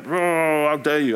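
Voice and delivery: mildly hammed-up angry outburst; mock angry drunk. Retelling a drunk man confronting the preacher, mock angry. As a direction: imitate an indignant drunk's outburst. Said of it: "Very angry".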